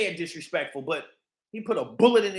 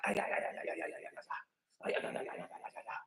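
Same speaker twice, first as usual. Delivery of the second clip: mock ay ay chant; 17 dB quieter, faster than usual. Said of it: "was like".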